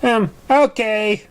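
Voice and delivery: a high, slow, deflated "um, okay"; dejected. Acted. Dicky answers Apple Bloom, high and slow, dejected. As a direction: let it sag, halfhearted and let down. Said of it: "Dicky said dejectedly".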